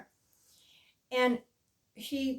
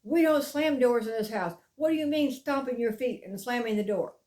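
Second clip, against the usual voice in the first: mock telling-off, a bit louder; scolding parent; 4 dB louder than usual. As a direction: imitate a typical scolding parent. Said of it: "like a typical parent and gone".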